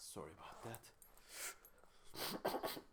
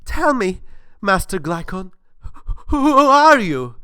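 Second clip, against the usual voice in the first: high, eager pleading voice; a naive worshipper calling up to his god; gullible questioner; 6 semitones higher, 9 dB louder than usual. Acted. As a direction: ask it like a wide-eyed believer. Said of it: "Gullible Man says".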